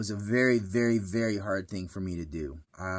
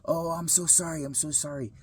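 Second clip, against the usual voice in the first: higher, softening apology; retold tender sympathy, trailing softer; imitated sympathy; 6 semitones higher, 3 dB quieter than usual. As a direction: voice a stranger's gentle condolence. Worker sees he is upset.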